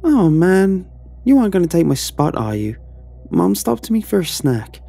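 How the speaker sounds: put-on high, loud, fast tumbling child voice; breathless excited boy. Jake bursting into the room to his brother, breathless child. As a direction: rush the words, worried about your spot.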